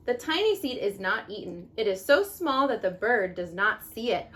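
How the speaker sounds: gentle storybook read-aloud; reading to children. Acted. Mom reading The Tiny Seed to her kids, storybook voice.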